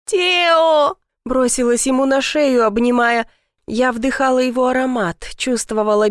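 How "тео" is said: high, overjoyed call of the name; higher-pitched exclamation of relief; joyful cry. A narrator's reading. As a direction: cry it out as you rush to embrace him. Recognises husband, throws herself at him.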